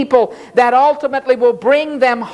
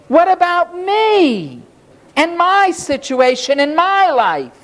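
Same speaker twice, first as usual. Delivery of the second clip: higher-pitched bitter griping of the psalmist; bitter complaint; 5 semitones higher than usual. Retold or imitated. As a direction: whine about being left out of the blessing. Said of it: "psalmist's bitter complaint acted out".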